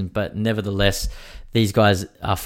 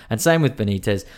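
while sipping a drink. Real, not acted. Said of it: "I'm drinking a little frothy ale".

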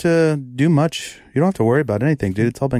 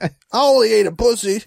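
hammed-up sobbing excuse, higher; mock crying; 7 semitones higher than usual. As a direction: wail it like a caught cheater. Mock crying excuse after cheating.

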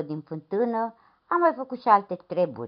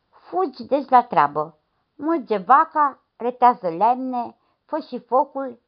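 bossy priest; 4 semitones higher than usual. Acted. Priest barks chores at the lad.

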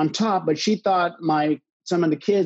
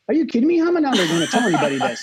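higher and louder, laughing in disbelief; incredulous outburst; 7 semitones higher, 3 dB louder, much faster than usual. Retold or imitated. Husband to wife on phone, laughing incredulous outburst. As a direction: retell his shocked reaction, half laughing. Disbelief at being told secrecy.

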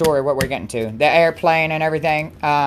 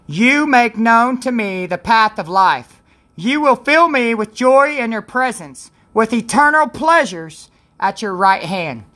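scripture reading; 3 semitones higher, slower than usual. Acted. Reads the verse of the day.

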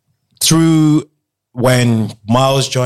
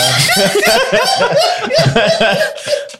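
high laughing fit. Real, not acted. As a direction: crack up laughing. Bursts out laughing.

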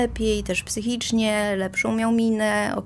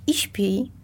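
whisper. Real, not acted. Horse sleeping beside her now.

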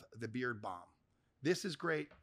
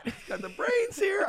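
mock praise; 6 dB louder than usual.

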